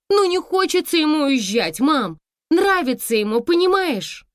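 high, loud rapid pleading; chattering daughter. A narrator's reading. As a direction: rattle on to calm her mother. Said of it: "И Анюта затарахтела". (дочь тараторит в трубку)

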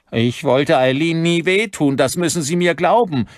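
high, loud whimpering plea; terrified high-pitched whine. A narrator's reading. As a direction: whimper desperately, begging to be believed. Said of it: "wimmerte Pollock".

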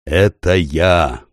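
very slow, deep and weighty; earth-shaking deep voice. Acted. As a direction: let it shake the stones. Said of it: "произнёс голос так, что задрожали камни".

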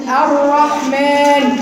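slow, emphatic الرحمن with the r held without extra rolls; correct doubled r. Shown as a demonstration. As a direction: lean on الرحمن slowly, one tap. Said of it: "لا، أقول".

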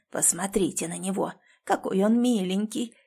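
put-on hoarse old woman whispering. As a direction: rasp it out in a leering whisper. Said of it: "хрипло прошептала одна из них".

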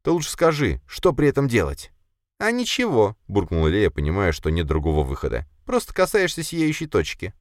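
high spider voice, warning and fretting; anxious spider. Acted. Spider warns her master about the twilight world, high and fretful. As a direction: list the dangers in the spider's voice.

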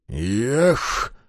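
a short vexed "Eh!" flung out in frustration; mild exasperated exclamation; exasperated cry. A narrator's reading. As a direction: blurt it out in a fit of annoyance. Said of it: "вскрикнул в сердцах".

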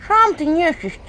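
высокий громкий писк мыши; пропищи дерзко, как мышь; писклявый голосок. A narrator's reading. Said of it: "песклявый голосок". (мышь огрызается на князя, писклявым голоском)

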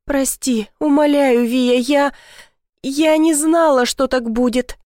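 tearful begging. A narrator's reading. Guilty sister begs Viya for forgiveness, high and tearful. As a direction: beg forgiveness through tears.

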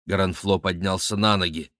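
ordinary delivery

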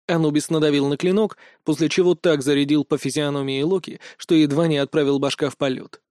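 ordinary delivery

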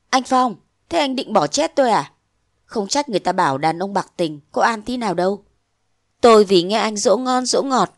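reproachful young woman, lightly voiced; young woman pleading. Nguyệt reproaching Phong for abandoning her, hurt pleading. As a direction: plead with him, hurt and bitter.

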